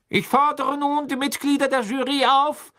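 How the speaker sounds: loud, high, commanding proclamation; called out. A narrator's reading. Crouch summons the jury to vote, calling out loudly. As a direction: call it out to the whole courtroom. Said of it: "rief Mister Crouch".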